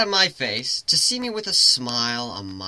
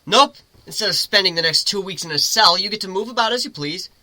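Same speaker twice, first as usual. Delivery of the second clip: griffin teasing; 4 semitones higher than usual. Acted. Griffin teasing Lyra mid-fall, high playful voice. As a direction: tease her lightly as you both fall.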